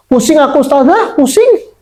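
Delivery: put-on high, whiny child complaining of headache; mock whiny child. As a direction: whine it like a sick kid. Anak mengeluh sakit. (anak merengek manja)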